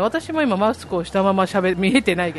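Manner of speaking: muffled behind a mask; speaking through a mask; through a face mask. Real, not acted.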